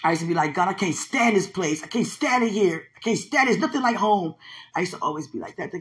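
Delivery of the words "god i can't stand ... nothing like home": mildly acted childlike complaint to God; retold tantrum. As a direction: imitate a mild tantrum, rising as it repeats. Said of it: "Went from having tantrums".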